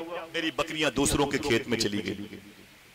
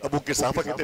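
usual speaking voice

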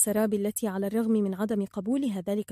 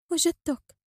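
light, higher-pitched greeting; sweet, playful softness; gentle, smiling; 7 semitones higher, slower than usual. A narrator's reading. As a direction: say it kindly through a smile. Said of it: "قالت بلطف وهي تنظر إليه مبتسمة".

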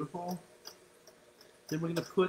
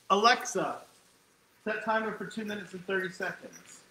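raised voice for the smart speaker; calling out to Alexa; 3 semitones higher, 4 dB louder than usual. Real, not acted. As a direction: call the command across the kitchen.

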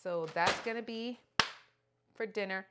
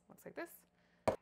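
repeated much higher and slow, stretched out; 9 semitones higher, much slower than usual. Shown as a demonstration. Showing the onions to viewers again, high and slow. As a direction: lift it up high and drag it out. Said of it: "So it looks like this".

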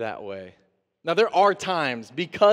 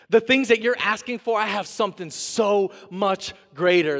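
rising promise; 5 semitones higher, 4 dB louder than usual. Acted. God promising something greater.

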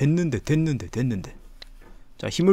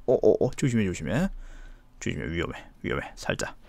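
tense and hushed; 6 semitones lower, 8 dB quieter, faster than usual. Real, not acted. Nervous careful climbing.

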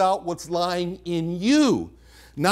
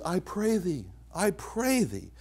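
affectionate pleading; 3 semitones higher, 7 dB quieter than usual. Retold or imitated. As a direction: plead gently and tenderly, voice lifted and softened. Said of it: "he finds some affection down there for Lot".

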